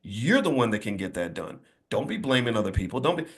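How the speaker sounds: put-on quietly scolding the boy as his mom; mother scolding. Mother quietly scolding her nine-year-old son, low and soft. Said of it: "My mother was like".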